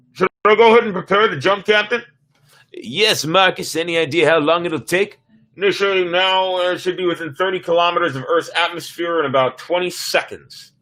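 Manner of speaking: a hint of a brisk officer reporting; quick, eager report to the captain; lightly voiced crew officer. Officer reporting the jump to the captain, lightly voiced.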